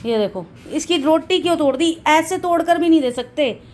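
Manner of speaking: voicing the sulking dog.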